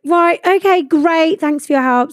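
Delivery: retold thanks through gritted teeth; falsely polite. Unassertive passenger thanking unhelpful desk lady, falsely polite.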